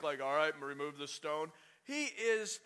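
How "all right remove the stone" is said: level, matter-of-fact order; composed, unbothered king; circumspect. Retold or imitated. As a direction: give the order calmly and carefully. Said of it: "He's not all circumspect".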